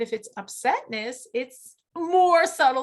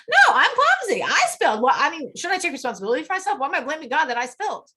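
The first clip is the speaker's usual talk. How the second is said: mock protest; 2 semitones higher, 5 dB louder, faster than usual. Teacher mimicking a student who blames her own clumsiness, protesting. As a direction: push back as the objecting klutz.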